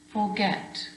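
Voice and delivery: "forget" with weight on GET; stressed last syllable. Shown as a demonstration. Teacher asking pupils to hear it, "forget" stressed on GET. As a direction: make the "get" of "forget" stand out. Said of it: "that get is more stressed".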